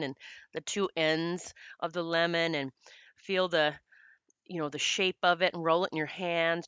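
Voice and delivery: gentle guiding voice, leading a visualization; calmly walk a listener through imagining a lemon; guided meditation voice. Shown as a demonstration. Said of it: "as I'm guiding you through these meditations".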